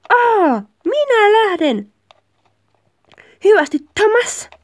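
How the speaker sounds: high, drawn-out hammed-up outburst; dramatic angry farewell. Partner walking out on Thomas, dramatically upset. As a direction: wail the goodbye melodramatically, slow and high.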